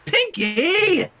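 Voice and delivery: high, loud exasperated yell; high shouted name, out of patience; aggravated shout. Acted. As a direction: snap her name out in frustration. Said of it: "Twilight shouted in aggravation".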